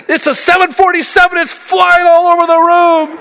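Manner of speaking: mock a terrified kid yelling about a bug; imitating panicked daughter. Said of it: "She's crying".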